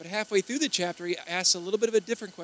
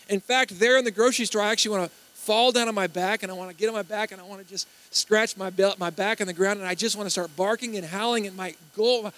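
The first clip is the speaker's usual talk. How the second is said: acted, raised-pitch rush of longing; eager confession; 3 semitones higher, 5 dB louder than usual. Client confessing dog urges to a nutritionist, eagerly. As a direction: pile up the urges with mounting eagerness.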